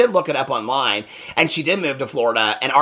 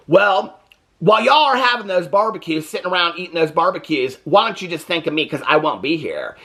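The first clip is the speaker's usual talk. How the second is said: higher, snippy mock of a spiteful send-off; nasty retort; 3 semitones higher than usual. Amanda telling family she's leaving, mild mock nastiness. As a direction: imitate her sneering it at the family. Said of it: "it seems so nasty how she presents it".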